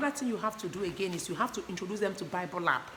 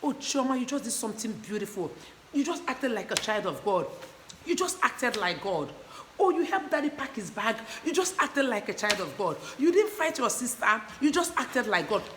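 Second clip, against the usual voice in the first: put-on gushing praise for a toddler; praising a child. Shown as a demonstration. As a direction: cheer the child on like a proud parent. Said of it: "talk about".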